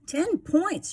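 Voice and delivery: high, loud crowing cry; gleeful shout. Acted. Sleater crowing about his lead, loud and high. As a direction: crow it out like you just scored. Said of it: "shouted Sleater".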